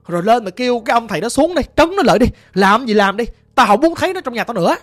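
exasperated mother giving orders; urgent ordering. Acted. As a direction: order it done, at your wits' end. Mother orders daughter to fetch exorcist.

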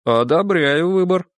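drawn-out male approval; man-to-man approval. A narrator's reading. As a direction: say it like a wink between men. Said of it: "по-мужчински подмигнул".

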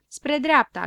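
put-on a touch of a small girl's high voice; little girl voice. Little girl figure answers. (vocea unei fetițe, ușor ridicată)

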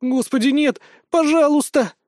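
high, loud panicked plea; pleading panic. Acted. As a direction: beg in horror. Girl begs smitten man away.

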